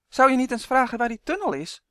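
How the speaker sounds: a hint of insistent insect-elf. A narrator's reading. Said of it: "zoemde Uf".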